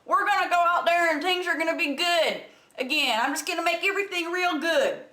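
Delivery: lightly voiced dim-witted sloganeer; mock vague campaigner. Commentator parodying Trump's vague statement, mock campaigner voice. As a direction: parody an empty campaign promise, slowing at the end. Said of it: "The vague statement".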